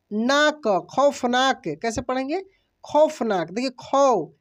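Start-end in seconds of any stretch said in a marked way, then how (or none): 2.8-3.5 खौफनाक with a strong, open औ in खौ; stressed au sound. Shown as a demonstration. Hindi teacher modelling खौफनाक for students, forceful औ. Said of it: "जोर लग रहा है इस पे". 3.7-4.3 खौ said alone with a forceful open औ; stressed au syllable. Shown as a demonstration. Teacher isolating खौ for the class, forceful औ. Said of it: "जोर लग रहा है इस पे".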